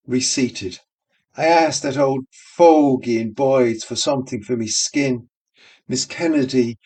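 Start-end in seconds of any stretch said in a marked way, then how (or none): 1.4-5.3 barmaid voice. Acted. Barmaid complains in voice.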